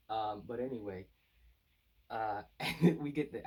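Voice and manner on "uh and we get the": a burst of loud laughter, pitch up; laughing. Real, not acted. Reviewer amused by the chapter title, laughing. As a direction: laugh out the start of the line.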